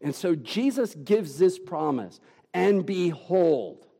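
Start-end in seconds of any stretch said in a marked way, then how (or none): 2.5-3.9 slow, weighty "And behold", with a pause before "behold"; "behold" set apart and leaned on; drawn-out solemn "And behold"; emphatic behold. Shown as a demonstration. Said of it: "It's emphatic".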